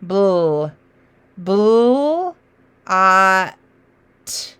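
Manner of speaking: "bull" said twice quickly, then "ah" and "t" apart; quick blend sounds. Shown as a demonstration. Teacher modelling the blend, sounds still separate. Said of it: "my blend kinda makes two quick sounds".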